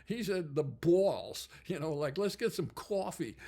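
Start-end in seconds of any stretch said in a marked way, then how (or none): 0.6-1.5 louder New Jersey vowel on BALLS; New Jersey accent. Shown as a demonstration. Showing how the guitarist said it, New Jersey accent. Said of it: "that's the accent". 2.2-3.4 higher, exaggerated New Jersey vowels; New Jersey accent. Shown as a demonstration. Giving an example of the accent, mock New Jersey. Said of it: "that's the accent".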